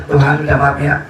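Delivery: low, humble apology to a god; acted low-voiced pleading for pardon; mock apology. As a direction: apologise sheepishly, pitched well down. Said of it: "Dia minta maaf".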